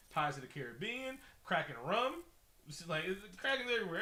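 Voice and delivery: loud, high, worked-up rant; excited rant. Real, not acted. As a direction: get fired up and yell it. Heated rant about saying Kraken.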